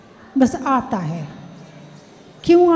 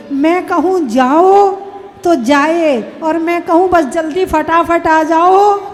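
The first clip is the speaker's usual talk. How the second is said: lightly acted bossy wife, drawing out each line's last word; louder, singsong list of demands with stretched endings; imitated demanding wife; 3 dB louder than usual. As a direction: play a wife laying down her rules. Voices a wife's demands on husband.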